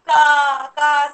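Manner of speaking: loud, drawn-out crow caws. Shown as a demonstration. Teacher getting children to sound like crows, loud cawing. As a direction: caw like a crow. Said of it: "sound like a crow".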